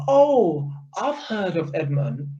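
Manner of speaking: mock the manager's snooty denial; scornful parody of a manager who now earns big money; mocking imitation. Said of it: "She's one of them people".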